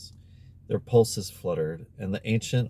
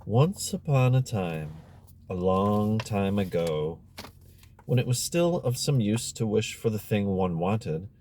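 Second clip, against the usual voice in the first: fairy tale reading. A narrator's reading. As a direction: savour each phrase like a bedtime tale. Reads the fairy tale within.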